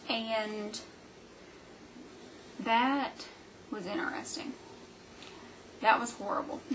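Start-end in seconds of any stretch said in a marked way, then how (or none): 5.8-6.7 laughing as she says it; a laugh breaking through the words. Real, not acted. Laughing at a bad appointment.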